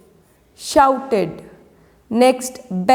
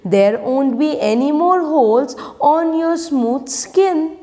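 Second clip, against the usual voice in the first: higher pleading voice; worm begging; 4 semitones higher than usual. Acted. Worm begging the mango, higher pleading tone. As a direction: plead to be allowed in. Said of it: "begged the worm".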